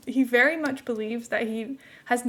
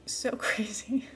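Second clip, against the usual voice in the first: spoiler whisper; 7 dB quieter, slower than usual. Real, not acted. Hushing to avoid spoiling the finale.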